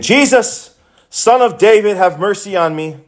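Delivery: high pleading cry. Acted. Blind man begging Jesus for mercy, crying out. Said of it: "And he cried out".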